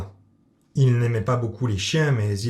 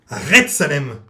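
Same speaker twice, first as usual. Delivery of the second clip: sharp louder telling-off; scolding; 2 semitones higher, 6 dB louder than usual. Acted. Hilda scolding her cat at the vet, sharp and louder. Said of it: "gronda Hilda".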